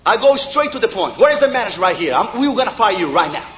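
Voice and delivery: lightly voiced demanding customer in English; mock-play a pushy diner calling for the manager; a hint of a bossy restaurant customer; tough customer voice. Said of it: "Gotta talk like this".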